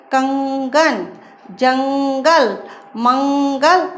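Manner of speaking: कंगन, जंगल, मंगल drawn out on a held nasal ng; anusvara nasal. Shown as a demonstration. Teacher showing pupils the anusvara, slow held nasal sound in कंगन, जंगल, मंगल. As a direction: hum the dot's sound through the nose in कंगन, जंगल, मंगल. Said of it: "इसका उच्चारण नासिका के द्वारा किया".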